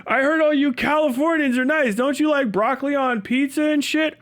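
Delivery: high, teasing interviewer; a high, teasing question; mock interviewer voice. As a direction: bait the hick with a question. Interviewer teases the hick.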